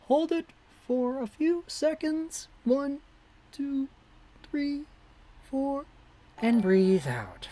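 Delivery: guided breathing. Shown as a demonstration. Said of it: "Time for the breathing exercises".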